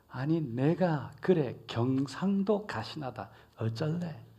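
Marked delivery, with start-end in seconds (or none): none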